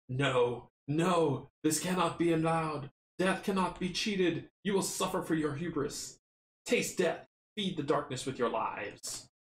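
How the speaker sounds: hollow menacing spirit voice; a dark presence pronouncing doom; unearthly voice. Acted. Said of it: "a hollow voice utters a terrible sound".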